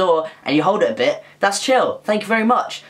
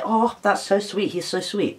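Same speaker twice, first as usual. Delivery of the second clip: lightly imitated admiring coo, trailing softer; mock swooning; 4 semitones higher, 3 dB quieter, slower than usual. Imagining girls charmed by polite boys, mock swooning. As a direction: coo it a little higher, then soften.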